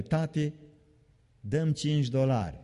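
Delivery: lightly voiced child asking dad for money; a touch of a pleading kid; child begging. Child asking tati for five dollars, lightly voiced.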